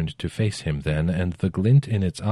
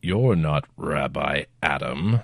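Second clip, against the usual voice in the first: slow, low, gruff, rough-edged demonic voice; 3 semitones lower than usual. Narrator reading a demon's words after it drops a man, low rough demon voice. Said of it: "The demon's voice was low and rough".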